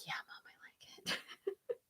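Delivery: very quiet, near-whispered reply; feeble agreement. Retold or imitated. Daughter humoring mom about her redecorated bedroom, barely audible. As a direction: let it shrink to almost nothing, humoring mom.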